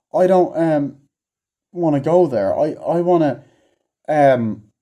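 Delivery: a lightly voiced, dithering nerd who won't go; mock reluctant scientist. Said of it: "he's like".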